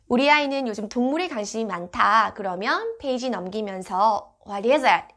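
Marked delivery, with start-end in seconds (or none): 4.5-5.1 put-on reading to a toddler. Shown as a demonstration. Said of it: "이렇게 동물의 포인트를 맞춰서 읽어주시면".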